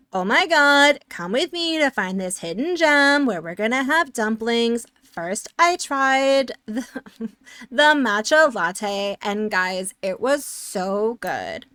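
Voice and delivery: gushing influencer, bright and breathless; mock influencer gushing over dumplings; New York influencer voice. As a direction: hype up a hidden gem like a TikTok influencer. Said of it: "my New York influencer voice".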